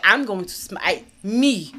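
slow, solemn prophet voice; lightly voiced prophet; mock biblical prophet. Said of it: "He's like".

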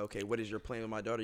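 low, quiet stern dad question; lightly voiced protective father; gruff overprotective dad. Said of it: "sitting down with whatever young man".

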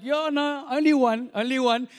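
hammed-up nervous insistence; loud insisting. Insisting to suspicious guard.

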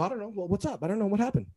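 mock-innocent retold shrug in the voice; acting dumb. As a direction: play clueless and harmless. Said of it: "I'm acting dumb".

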